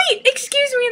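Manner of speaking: high-pitched indignant interruption; indignant retort. Retold or imitated. Guest to disgusted desk lady, high indignant protest.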